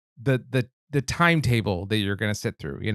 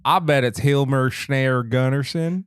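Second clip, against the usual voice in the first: slow, put-on Scottish lilt; hammed-up Scottish accent; mock Scottish accent; 3 semitones higher, 3 dB louder, slower than usual. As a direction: say it slowly as a joke Scotsman. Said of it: "He's Scottish".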